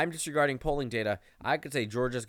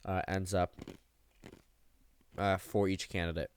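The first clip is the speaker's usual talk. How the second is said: talking around an ice cube; ice in mouth. Real, not acted. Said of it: "I just put an ice cube in my mouth".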